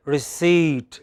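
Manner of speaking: RECEIPT with a long, strong CEIPT; light re-, full -CEIPT in Receipt; final-syllable stress. Shown as a demonstration. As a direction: lean on the second syllable of Receipt. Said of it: "bring that distinction very clearly".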